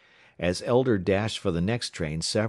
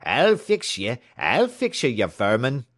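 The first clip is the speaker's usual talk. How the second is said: loud, high threatening yell; raised Irishman's roar; 5 semitones higher, 6 dB louder than usual. A narrator's reading. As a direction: roar threats while giving chase.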